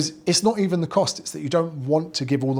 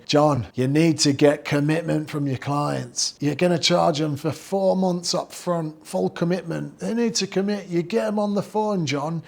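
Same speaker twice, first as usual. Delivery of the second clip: higher, slower, pushy guru voice, leaning on every word; mock hard-sell guru; 3 semitones higher, slower than usual. Guru lecturing John to close sales, mocking pushy coach voice. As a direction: ham up a pushy sales coach drilling a client. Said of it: "Don't know why they talk like that".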